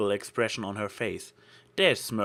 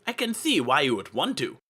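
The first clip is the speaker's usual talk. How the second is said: flustered; 7 semitones higher, 5 dB louder than usual. A narrator's reading. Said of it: "her confusion turning into pride".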